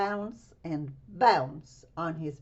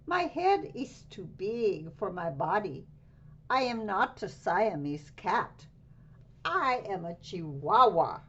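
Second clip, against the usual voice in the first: put-on Spanish accent; 4 dB louder than usual. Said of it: "using his very best Spanish accent".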